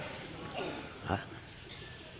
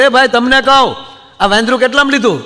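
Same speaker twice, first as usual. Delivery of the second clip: louder and higher, pressing the man for an answer; impatient repeat; 6 semitones higher, 4 dB louder than usual. Retold or imitated. Husband asks the trainer the price a third time, louder and impatient. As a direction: call out like you've asked too many times. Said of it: "ત્રીજી વાર કીધું".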